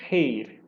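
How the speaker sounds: "reir" as one gliding syllable; diphthong pronunciation. Shown as a demonstration. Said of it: "Se não tem isso".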